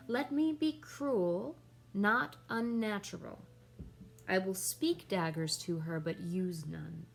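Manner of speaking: measured Shakespearean recitation, lightly dramatised; dramatic soliloquy reading. Acted. Hamlet alone resolving to confront his mother, lightly dramatic reading. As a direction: recite the verse with weight on key words.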